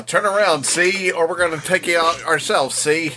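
lightly voiced Dick Tracy-style gangster; a hint of hammed-up bad guy; old comic-strip villain. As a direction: talk like a cartoon mobster making threats. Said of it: "I'm sure they talked like".

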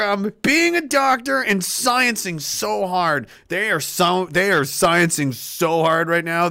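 slow, sarcastic mock gratitude; fake-thank them, dripping sarcasm. Sarcastic praise of doctors.

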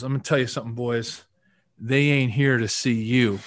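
imitated Southern North Carolina accent, slowing on the punchline; Alex Gibbs. Line coach warning his players, imitated North Carolina accent. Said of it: "Southern North Carolina accent".

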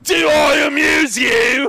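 loud, high, drawn-out yell; mock outrage. Host challenging the mocking co-hosts, in a mock-outraged yell. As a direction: shout it slowly, hammed-up. Acted movie-style challenge after being teased.

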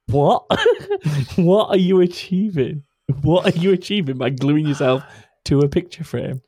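high-pitched, laughing disbelief; incredulous. Real, not acted. Podcaster questioning protesters glued to picture frames, incredulous.

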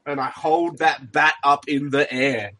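wrestling promo shout. Acted. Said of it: "look back to my fans like".

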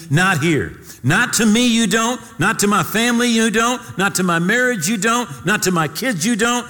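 high, loud, forceful rebuke; rebuking the devil. Pretend. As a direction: command the devil out with full force.

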